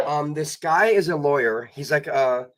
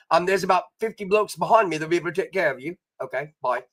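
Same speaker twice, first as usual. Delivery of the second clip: mock Australian accent. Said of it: "I would act like I'm Australian".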